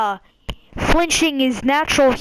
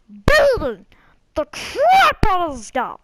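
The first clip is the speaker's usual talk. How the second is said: mock rage; 4 semitones higher, 3 dB louder than usual. Hams up urge to beat kid.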